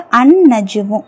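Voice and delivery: அன் நஜுமு with the l silent, doubled n; no l sound in அன் நஜுமு, just a long n; silent lam. Shown as a demonstration. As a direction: hold the n across அன் நஜுமு. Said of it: "அந்த லாம் உச்சரிக்கப்படாது".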